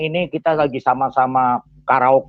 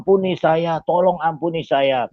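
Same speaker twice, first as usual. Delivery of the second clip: acted pleading; 3 semitones higher than usual. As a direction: plead for mercy as a retold quote. Retold begging of beaten opponent. (menirukan permohonan ampun dengan ringan)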